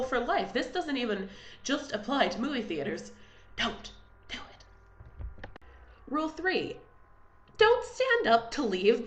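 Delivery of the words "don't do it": slow, drawn-out whispered warning; emphatic whisper. Acted. Vlogger warning seat-kickers in the cinema, slow whisper.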